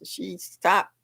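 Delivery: hushed unvoiced aside; whisper. Real, not acted. Host murmuring an aside on her live stream, whispered. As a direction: whisper it to the side.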